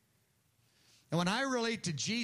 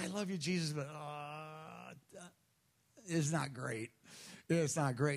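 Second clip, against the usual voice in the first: lightly voiced half-hearted believer; 4 semitones lower, 4 dB quieter than usual. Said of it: "And you say".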